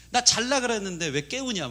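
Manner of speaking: mock grumbling of a woken child; child venting. Son blaming dad for waking him, mock cranky complaint. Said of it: "화풀이를 하기".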